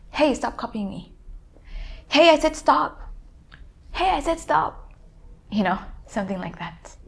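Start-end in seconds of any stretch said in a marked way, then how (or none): 0.1-1.1 mimicking an annoyed friend, pitched higher; copycat echo. Copycat echoing a friend who says stop, mimicking. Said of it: "trying to copy your friend". 2.1-3.0 acted exasperation, high and loud; annoyed friend. Friend telling the copycat off, acted annoyance. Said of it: "Like when your friend say". 3.9-4.9 high-pitched mimicry of an annoyed friend; copycat echo. Copycat parroting the fed-up friend, mimicking. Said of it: "trying to copy your friend".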